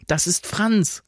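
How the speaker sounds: high exclamation of recognition; excited recognition. A narrator's reading. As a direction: call out on spotting a friend. Recognises approaching friend.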